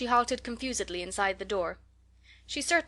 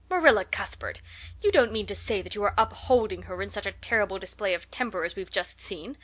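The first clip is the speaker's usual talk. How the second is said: indignant. Acted. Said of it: "demanded Missus Rachel indignantly".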